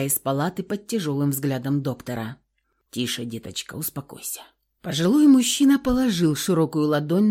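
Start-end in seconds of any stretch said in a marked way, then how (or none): 2.9-4.4 soft, low, fading to a whisper; calm her gently, almost whispering; soothing hush. A narrator's reading. Old man soothes the frightened patient, whispering.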